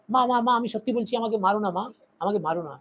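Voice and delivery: high, fading plea in Bengali; frightened pleading. Acted. Feverish boy begging his mother in Bengali, fading frightened plea. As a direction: beg mother, trailing off weaker. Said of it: "ऐसे बोল रहा है".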